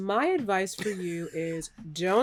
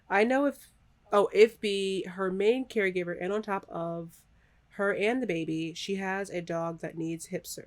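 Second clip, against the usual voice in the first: robot voice. Real, not acted. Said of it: "I just read that like a robot".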